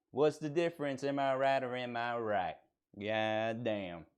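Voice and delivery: drawling put-on Southern American; Southern American accent. Streamer playing a proud red-blooded American, Southern accent. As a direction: lay on a Southern good-old-boy accent. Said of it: "a white guy from the South".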